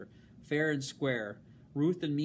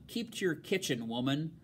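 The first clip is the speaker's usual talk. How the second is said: sharp rebuke; 2 semitones higher than usual. Acted. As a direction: snap at the servant from above. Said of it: "words came out sharp, loud and sharp".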